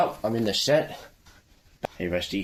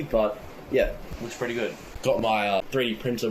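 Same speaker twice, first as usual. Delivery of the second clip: hoarse sick voice, a bit croaky; 3 semitones higher than usual. Real, not acted. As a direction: talk through a sore, croaky throat. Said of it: "my voice sounds a bit croaky".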